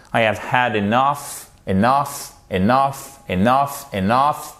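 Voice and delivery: enough stressed on its last syllable, e-NUFF; stress on second syllable. Shown as a demonstration. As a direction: hit the NOUGH of enough each time. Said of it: "Seconde syllabe pour l'accentuation".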